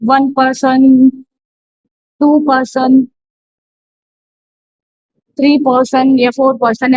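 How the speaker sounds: वन पर्सन drawn out slowly, each word apart; teacher stretching out वन पर्सन; slow spelled-out example. Shown as a demonstration. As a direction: say वन पर्सन slowly and deliberately for the class. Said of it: "cardinal".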